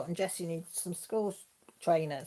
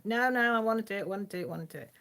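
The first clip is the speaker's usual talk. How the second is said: mildly pleading, repeating in a tumble; insistent child; 3 semitones higher, faster than usual. Retold or imitated. Daughter overriding mum's warning about the chili, mock insistence. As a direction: imitate a kid who won't be talked out of it.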